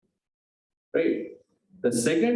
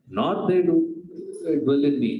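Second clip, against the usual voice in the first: louder, stressing the twist; spring the contradiction on them, louder; a teacher's dramatic louder reveal; emphatic, sudden; 4 dB louder than usual. Retold or imitated. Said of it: "Suddenly he says what?".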